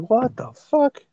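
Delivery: very high, drawn-out disbelief; shocked. Retold or imitated. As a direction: stretch it out in stunned disbelief. Retold shocked reaction.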